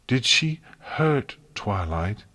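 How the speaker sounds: slow, stern question; measured and stern, holding back anger. Acted. Celestia asking her sister sternly whether Twilight was hurt. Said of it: "in a very stern tone of voice".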